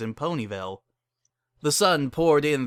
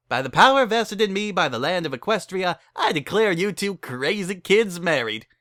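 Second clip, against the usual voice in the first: brassy saleswoman; 4 semitones higher, 3 dB louder than usual. Acted. Barry pitches her wedding packages to the couple, brassy and higher. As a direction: rattle off the package menu like a hustler.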